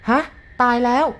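jolted, disbelieving outburst; shocked. A narrator's reading. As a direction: caught off guard by the death. Hearing the man is dead.

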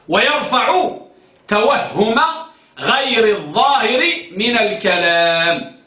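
slow, spaced dictation of a definition. Shown as a demonstration. Teacher dictating the definition to students, slow and spaced. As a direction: read it out slowly so students can write. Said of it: "اكتبوا التعريف بسرعة".

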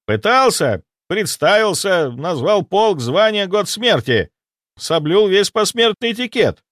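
very high, slow breathless report; panicked ghost soldier. Acted. Ghost soldier reporting the dead army, high panicked voice. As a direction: babble the news in alarm.

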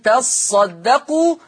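تصدقوا slowly with the صاد held and doubled; doubled sad. Shown as a demonstration. Teacher shows students the Warsh reading with a doubled sad. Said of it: "بتشديد الصاد".

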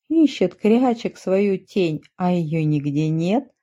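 ordinary delivery, nothing marked

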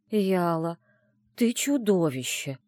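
slow, heartfelt exasperated reproach; sincere exasperated sigh. Acted. Narrator to her scheming friend, slow sincere reproach. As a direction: breathe it out slowly and sincerely. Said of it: "искренне выдохнула я".

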